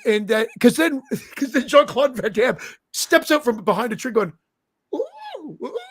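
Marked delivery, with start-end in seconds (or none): 4.9-5.8 soft hooting "ooh" bird call; imitated bird call. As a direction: coo like a bird signalling from behind a tree. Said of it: "making the bird noises".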